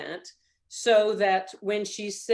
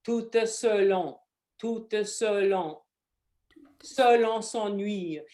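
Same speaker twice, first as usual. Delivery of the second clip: slow tout selon, then selon son nuit; broken into chunks; slower than usual. Shown as a demonstration. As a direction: lay out tout selon in separate slow pieces. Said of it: "And then I would do".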